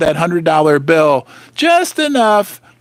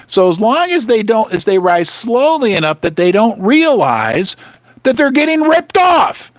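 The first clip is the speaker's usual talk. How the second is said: angry yell. Real, not acted. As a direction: burst out at being ripped off. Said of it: "Sorry, I yelled".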